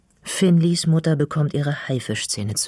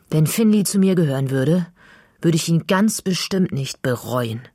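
a louder, higher outburst; blurted out; 4 semitones higher, 4 dB louder than usual. Acted. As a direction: she can't hold her tongue any longer. Girl blurts out to mother. (Mädchen platzt vor Finleys Mutter heraus, lauter)

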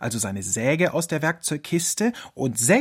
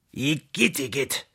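fox recoiling in disgust. A narrator's reading. Fox at his snotty hanky, disgusted. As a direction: spit it out, revolted. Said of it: "entfuhr es ihm".

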